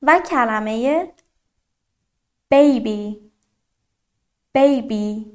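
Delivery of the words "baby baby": put-on baby with a clear "ay" in the first syllable; baby said singly, first vowel a full "ay"; long A sound. Shown as a demonstration. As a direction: lean on the "ay" in baby. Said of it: "ببینید با صدای A".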